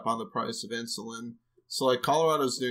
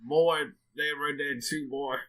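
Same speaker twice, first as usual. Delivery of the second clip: put-on old-timer voice. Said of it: "you're gonna come back and say".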